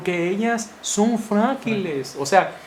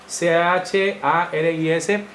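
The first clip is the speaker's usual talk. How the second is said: spelled out slowly; much slower than usual. Real, not acted. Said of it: "spelling out the word".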